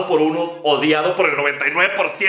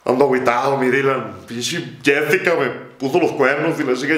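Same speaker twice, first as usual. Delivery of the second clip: mock sad driver; 4 semitones lower than usual. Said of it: "Lo consuela cuando está triste".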